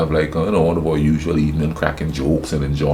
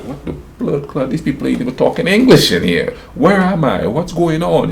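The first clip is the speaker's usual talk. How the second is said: mock panic; 8 semitones higher than usual. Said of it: "I was like".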